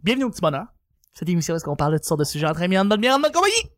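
show host intro. Acted. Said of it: "intro, on commence".

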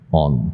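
"on" ending on a clear n, tongue tip up; front final n. Shown as a demonstration. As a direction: say on with a front n, not ng. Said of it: "所以是念".

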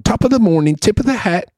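high, singsong Irish brogue; jovial Irish accent. Acted. Host showing off his jovial Irish greeting, high Irish accent. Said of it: "your Irish guy is, like, the jovial guy".

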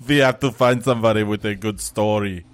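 put-on hint at the action-hero accent without hamming it; Arnold Schwarzenegger. Friend mocking Tyrion's speech, light Schwarzenegger voice. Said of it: "he turns into Arnold Schwarzenegger".

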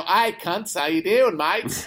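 cheery put-on Aussie greeting; Australian accent. American showing the friendlier greeting, Australian accent. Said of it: "if you were to go".

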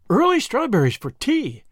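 light up at the thought of strawberries; excited exclaim. Acted. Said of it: "exclaimed Miss Lavendar".

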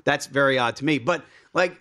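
ordinary delivery

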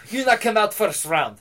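slow, lightly put-on French accent, badly done; a bad French accent, taking it slow; terrible French accent. French coach telling his fighter the plan, in a bad French accent. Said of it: "I'm doing a terrible French accent".

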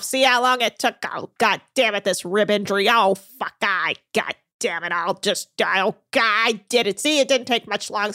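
put-on a lightly gruff old captain cursing as he climbs; muttered curses of a proud old skipper, lightly voiced; Captain Lee impression. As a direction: grumble and swear like a stubborn old captain. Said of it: "Captain Lee impression".

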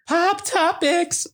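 high, slow segment jingle; announcer voice. Shown as a demonstration. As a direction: sing out the segment title. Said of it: "segment title announced".

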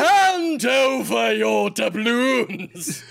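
slow, loud, drawn-out; pirate-like demand. Pretend. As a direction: growl it like a greedy pirate. Old-timey landlord bit.

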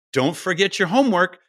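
parent nagging. Pretend. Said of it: "if you say".

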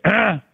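short, high "ah"; sudden high imitated grunt; imitated exclamation. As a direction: blurt a quick, high ah in imitation. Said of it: "and he goes".

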